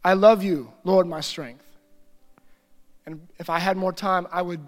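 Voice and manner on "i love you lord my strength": a slow prayed reading, unhurried; slow prayerful reading. Shown as a demonstration. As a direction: let the verse sink in, slowly. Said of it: "I read it slow, and I pray it as I read it".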